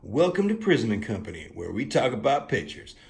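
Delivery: loud hammed-up show-intro voice; mock tagline. Vlogger inventing a tagline for Prism and Company, announcer style. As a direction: pitch it like a promo slogan. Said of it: "this could be the tagline".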